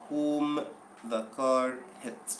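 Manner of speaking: teacher stresses whom as the correct answer. Shown as a demonstration. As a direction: lean on whom, then slow down. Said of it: "يبقى الصح".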